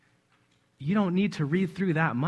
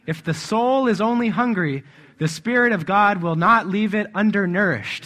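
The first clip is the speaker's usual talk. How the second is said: raised, emphatic preaching voice; fervent proclamation; 3 semitones higher, 6 dB louder than usual. Real, not acted. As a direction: proclaim the promise with force. Builds fervour reading the quotation.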